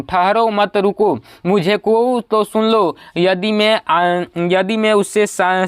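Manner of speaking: slow, halting reading of a poem; verse recitation. Acted. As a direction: read the verse out slowly, line by line. Reads out verse lines haltingly. (धीमे, रुक-रुक कर कविता पाठ)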